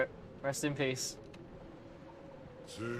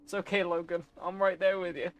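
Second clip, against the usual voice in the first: soft comfort; 4 semitones higher, 4 dB quieter than usual. Real, not acted. Comforting a character.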